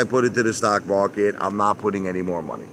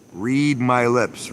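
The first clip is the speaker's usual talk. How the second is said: slow emphatic; 2 semitones higher, much slower than usual. Real, not acted.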